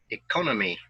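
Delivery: "economy" with the stress on CON: e-CON-o-my; "economy" modelled for repeating, CON stressed; model word stress. Shown as a demonstration. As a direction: say "economy" clearly and hit the second syllable CON. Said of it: "listen and repeat after me".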